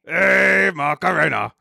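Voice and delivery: lightly voiced monster, each syllable over-enunciated; a hint of puppet monster singing; Cookie Monster. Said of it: "Can you say it?".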